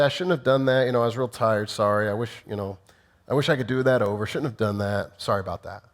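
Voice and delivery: a husband giving his wife a weak sorry, trailing off; mumbled weak apology. Retold or imitated. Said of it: "If I simply say".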